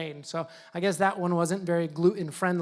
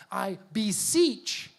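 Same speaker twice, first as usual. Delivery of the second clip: slow, drawn-out "beseech"; quoting the old-fashioned "beseech"; drawn-out word; much slower than usual. Shown as a demonstration. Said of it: "that's kinda like a throwback word".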